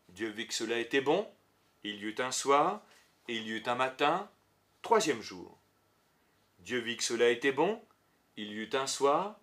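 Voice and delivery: measured litany, each phrase rising, day number falling; scripture refrain recitation. Acted. Teacher reciting the creation refrain to show its repetition, measured litany. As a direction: recite it in even, spaced phrases with pauses.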